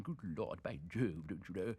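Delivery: mock over-British accent, lightly done. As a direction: stammer it in a mild plummy over-British accent. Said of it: "in an over-British accent".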